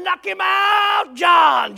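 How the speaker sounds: long, high, loud cheer from below; storyteller imitating shouting hunters; acted hollering. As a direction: holler it up the tree, stretching each word. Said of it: "And they're hollering".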